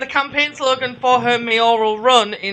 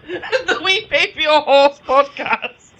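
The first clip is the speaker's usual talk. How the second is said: laughing; 2 semitones higher than usual. Real, not acted. Laughing through sign-off.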